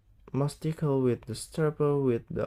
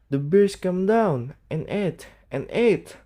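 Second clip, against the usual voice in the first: put-on shaky child's lament; 7 semitones higher, 6 dB louder than usual. A narrator's reading. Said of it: "Johnny was shaking again".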